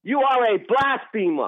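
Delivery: slow, emphatic condemnation; real, heated denunciation; yelling. Real, not acted. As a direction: hammer out each word in anger. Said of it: "You yelling at me again".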